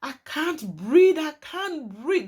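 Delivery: slow, drawn-out imitation of her shout; retold shouting. Retelling a strangled woman's plea, slow mock shout. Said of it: "She's shouting".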